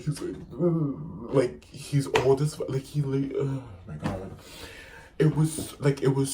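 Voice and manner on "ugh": mock old man's shuddering groan; imitated twitchy groan. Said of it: "He's, like, twitching".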